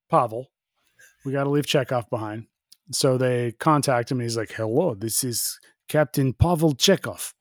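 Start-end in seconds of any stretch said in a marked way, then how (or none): 4.5-7.3 Chekhov's Russian accent, lightly put on; light mock Russian accent; attempted Russian accent. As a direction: greet as a captain with a touch of Russian. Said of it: "Oh, wrong accent".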